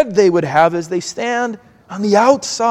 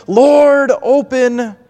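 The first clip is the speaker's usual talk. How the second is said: earnest plea to be let in, pitched higher; pleading; 3 semitones higher than usual. Acted. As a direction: beg the master at the locked door. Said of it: "plead to the master".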